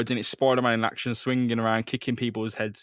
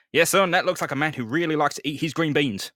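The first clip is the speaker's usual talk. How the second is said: Captain Stacy voice; 4 semitones higher, 4 dB louder than usual. Acted.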